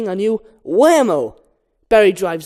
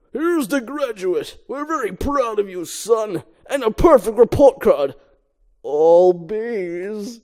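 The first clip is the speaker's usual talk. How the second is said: proud father; 2 semitones higher, slower than usual. Acted.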